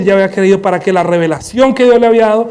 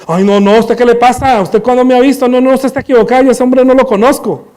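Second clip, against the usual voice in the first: 1 flustered denial; 4 semitones higher, 3 dB louder than usual. Acted. Pedro denies knowing Jesus.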